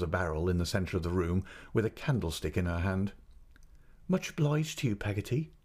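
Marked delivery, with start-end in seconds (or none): 4.1-5.5 higher-pitched, lightly cheerful mother. A narrator's reading. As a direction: answer with mild, pleasant cheer. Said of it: "returned my mother in a cheerful voice".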